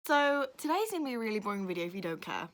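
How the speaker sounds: rough, hoarse delivery; scratchy throat pushing through; raspy voice. Real, not acted. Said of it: "raspy voice".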